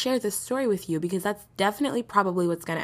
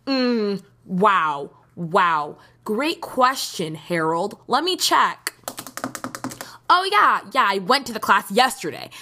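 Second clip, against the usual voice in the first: sarcastic; 4 dB louder than usual. Retold or imitated. Sarcastic reply to clerk question.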